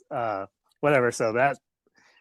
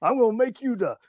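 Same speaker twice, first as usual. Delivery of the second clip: higher-pitched pitch from an excited boss; Vince McMahon impression; 6 semitones higher than usual. Wrestler retells his boss inventing a gimmick, Vince McMahon impression. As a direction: imitate the boss hatching a new character. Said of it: "I wanna go thank Vince McMahon".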